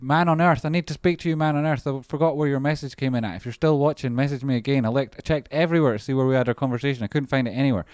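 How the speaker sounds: high, loud call to a viewer. Real, not acted. Streamer calling to a viewer he lost, loud. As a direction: shout it out so he hears.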